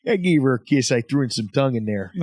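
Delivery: lightly put-on Chicago accent. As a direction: imitate a Chicago guy bragging, lightly. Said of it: "he talks like this. He's from Chicago".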